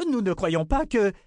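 high indignant protest, cut short. A narrator's reading. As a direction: protest until interrupted. (protestation indignée, voix haute)

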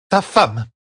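a touch of irritated healer; grumbled. A narrator's reading. Séonide answers Perrine about his wife, mildly grumbling. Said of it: "grogna Séonide".

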